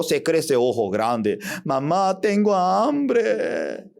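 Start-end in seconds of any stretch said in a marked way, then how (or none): 1.6-3.9 put-on slow, pitched-up child's whine; hungry child. Child telling mom it is hungry, slow and whiny. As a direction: drag out the plea for food.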